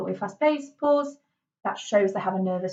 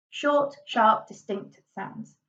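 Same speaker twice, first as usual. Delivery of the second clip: "Short, sharp" crisp and separate; lightly staccato, falling away on "sounds"; slower than usual. Shown as a demonstration. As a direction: deliver "Short, sharp, distinct sounds" in detached words.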